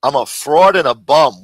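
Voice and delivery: loud disbelieving echo; incredulous repeat. Retold or imitated. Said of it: "Where does he get this shit from".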